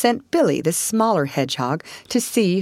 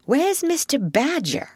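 much higher-pitched Mole voice; curious question; 10 semitones higher than usual. Acted. Mole inquires after Badger, curious and high. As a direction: lift it high, falling at the end.

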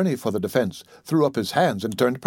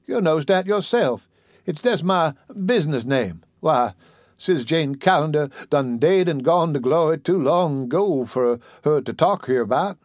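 put-on higher old woman's voice, scolding fondly; chiding old auntie; 3 semitones higher than usual. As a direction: tease him like the child you raised. Dicey explains to prosecutor.

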